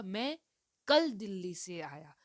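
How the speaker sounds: teacher demonstrating force on कल; stress on कल. Shown as a demonstration. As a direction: hit the word कल in the answer. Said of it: "उस पे force दिया जा रहा है".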